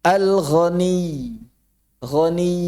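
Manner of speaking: "Ghani" with a held, contained final y; correct doubled ending. Shown as a demonstration. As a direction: sustain the end of "Ghani" evenly. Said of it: "Bukan ghani".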